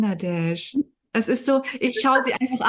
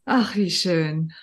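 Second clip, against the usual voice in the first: slow, lower, moved sigh of a phrase; touched; 5 semitones lower, much slower than usual. Real, not acted. Host moved by her guest's father, slow touched sigh. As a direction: let it sink in, deeply moved. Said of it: "da bin ich ganz berührt gerade".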